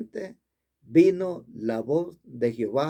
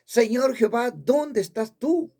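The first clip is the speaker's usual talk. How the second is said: re-enacted shout; 5 semitones higher than usual. Preacher re-enacts shouting to God at the altar, a high cry. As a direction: call out to heaven, retold without full volume. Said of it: "Y lo grité con toda fuerza".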